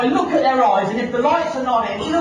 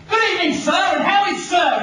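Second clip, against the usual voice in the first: mock booming sales greeting, pitched up; loud salesman voice; 5 semitones higher than usual. Salesman greets a passer-by at the airport, loud voice. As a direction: imitate an over-trained salesman calling out. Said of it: "in a loud voice like that".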